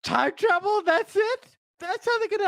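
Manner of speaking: high, thrilled disbelief, slowing on the last words; mind blown. Retold or imitated. Fan recalling the time-turner reveal, high and thrilled. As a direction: gush like your mind just exploded. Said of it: "I was like".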